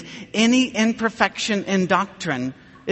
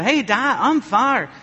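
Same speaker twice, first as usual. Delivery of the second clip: a hint of an excited small son, higher pitch; lightly voiced little boy; 4 semitones higher, slower than usual. Son calling to his dad from second base, lightly voiced little boy. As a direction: call to Dad in a lightly childlike, raised voice.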